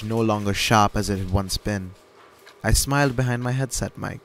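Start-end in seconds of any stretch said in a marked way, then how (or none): none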